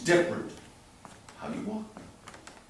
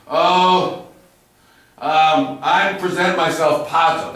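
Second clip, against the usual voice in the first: half-hearted presenting; 3 dB louder, slower than usual. Shown as a demonstration. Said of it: "if you did your lines like this".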